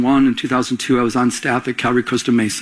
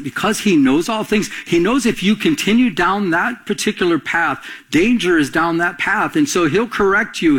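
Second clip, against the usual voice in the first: raised, fervent preaching voice; 5 semitones higher than usual. Acted. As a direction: drive the warning home from the pulpit. Preaching to the congregation.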